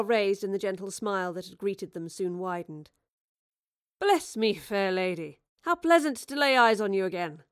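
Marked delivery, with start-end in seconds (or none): 4.0-7.4 delighted. Acted. Shakespeare delighted greeting.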